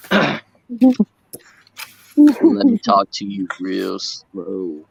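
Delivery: put-on old Southern accent. Streamer shows chat his old Southern accent, slow drawl. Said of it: "I used to have a worse Southern accent".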